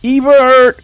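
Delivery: high, loud call across the ruins; yelling a name. Acted. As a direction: call the kid's name out with everything. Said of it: "Bennett yelled out".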